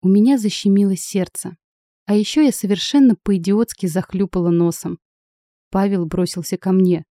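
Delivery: ordinary delivery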